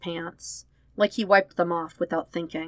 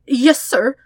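startled high squeak; a frightened little yes sir; jumpy, nervous servant squeak; 7 semitones higher, 10 dB louder than usual. A narrator's reading. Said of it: "the chef squeaks".

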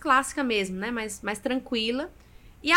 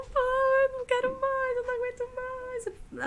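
high, broken plea to a father figure, much higher; retold crying plea; 14 semitones higher, slower than usual. Calling the deacon at midnight, pleading in tears, much higher. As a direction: sob it out, pitch cracking upward. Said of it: "assim, chorando muito, muito".

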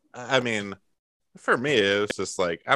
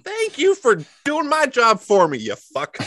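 mock indignant; 12 semitones higher, 4 dB louder than usual.

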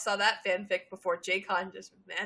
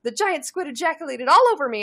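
mock hysterical; 4 semitones higher, 7 dB louder than usual. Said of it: "She screamed hysterically".

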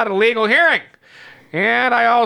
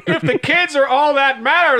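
laughing; 6 semitones higher than usual. Real, not acted. Laughing while reading line.

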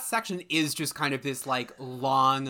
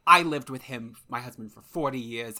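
lightly put-on New York Jewish mother accent; a touch of stereotyped New York accent; mother's New York accent; 5 dB louder than usual. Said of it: "I'm doing the accent".

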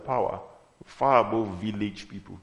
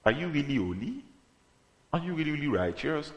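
tempting enemy; 5 semitones higher, 4 dB quieter than usual. Acted. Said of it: "you know what the enemy wants to do to tempt you?".

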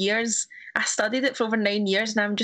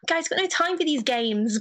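slightly raised, amateur English accent; English accent attempt; 4 semitones higher than usual. Shown as a demonstration. Showing friends the audition line in an English accent. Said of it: "trying to do an English accent".

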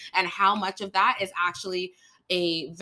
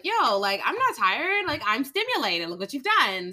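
wired; 6 semitones higher, 4 dB louder than usual. Retold or imitated. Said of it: "it's like".

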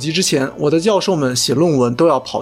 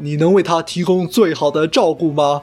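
over eager infomercial. Pretend. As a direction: sell it like a late-night ad host. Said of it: "这里要插入一个小广告". (夸张的电视购物广告腔)

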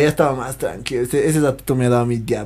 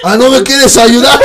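mock pleading; 10 semitones higher, 11 dB louder than usual. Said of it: "les he dicho".

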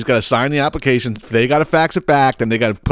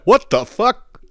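a high, laughing "what the fuck"; laughing disbelief; 9 semitones higher, much slower than usual. Retold or imitated. Host reacting to the snack-eating guy, laughing high. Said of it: "I was like".

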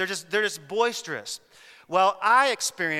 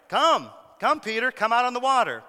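higher, inviting call; calling Peter; 5 semitones higher than usual. Acted. Jesus urging Peter out of the boat, a higher call. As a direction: beckon him onto the water.

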